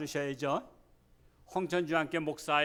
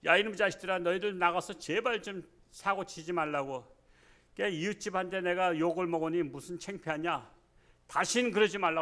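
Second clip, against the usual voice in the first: scolding father; 2 semitones higher than usual. Retold or imitated. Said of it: "아버지가 화를 내잖아요".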